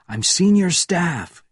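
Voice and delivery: high, slow assertion of rank; calling out. A narrator's reading. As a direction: announce it high and drawn out. Benjamin calls out to guards.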